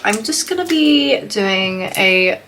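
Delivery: congested, stuffy head cold; choked up. Real, not acted. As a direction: talk through a bad cold. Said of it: "sorry if I sound really choked up".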